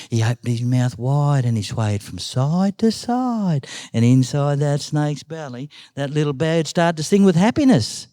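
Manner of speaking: drawn-out, swaying storytelling; suspenseful story narration. A narrator's reading. Uncle tells of the bird sneaking up, slow suspense. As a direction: stretch the words as the creeping builds.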